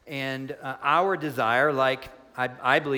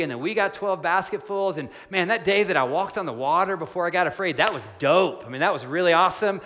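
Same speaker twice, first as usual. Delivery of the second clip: casual, starstruck Peter; 3 semitones higher, 4 dB louder than usual. Retold or imitated. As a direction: play Peter as an impressed fan, breezy and chatty. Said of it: "Peter's not just saying".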